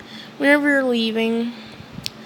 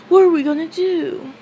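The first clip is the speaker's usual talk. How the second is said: high, a bit louder worried question; worried Asta; 6 semitones higher, 3 dB louder than usual. Retold or imitated. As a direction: ask it up high in a panic. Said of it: "And Asta says".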